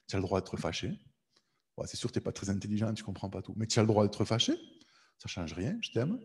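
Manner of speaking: low, softened, accepting voice; gentle reassurance. Acted. God answers an angry believer, gentle reassurance. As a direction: reassure softly, letting each phrase settle.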